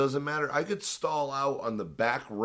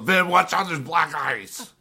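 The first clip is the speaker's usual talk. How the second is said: mocking panicked wife; 4 semitones higher, 4 dB louder than usual. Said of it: "she has flipped out on me".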